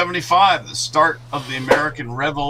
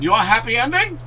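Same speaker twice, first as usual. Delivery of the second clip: imitating Asian accent; 7 semitones higher, 4 dB louder, faster than usual. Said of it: "little Asian lady going".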